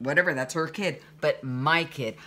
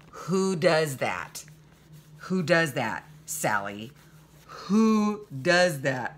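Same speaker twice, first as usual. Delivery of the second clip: slow, louder, clipped retold outrage; angry confrontation; 4 dB louder, much slower than usual. Mother confronts Sally outside the theater, slow and indignant. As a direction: hammer each word at her, slowly. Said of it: "I was really angry".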